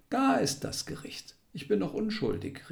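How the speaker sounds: angry outcry. A narrator's reading. Dying man crying out his innocence, angry and high. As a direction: fling the words at an unseen judge. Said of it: "rief er wütend".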